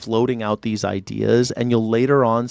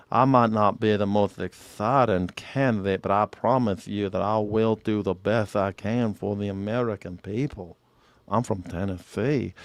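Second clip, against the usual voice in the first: Al Gore impression; 2 semitones lower, 3 dB quieter than usual. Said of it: "They all talk like this down there in Tennessee".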